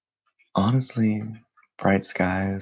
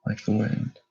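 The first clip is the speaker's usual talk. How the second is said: calm, unhurried meditation voice with long pauses; guided meditation; 3 semitones higher, 7 dB louder than usual. Acted. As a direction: guide listeners gently into stillness, leaving space between phrases.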